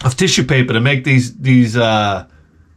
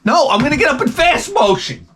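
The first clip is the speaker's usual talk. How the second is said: high, urgent mock exclamation; worked-up retort; 11 semitones higher than usual. Coworker fleeing the puzzle story, worked-up retort. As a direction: pitch it way up, all in a rush. Tops the slow-motion exit joke.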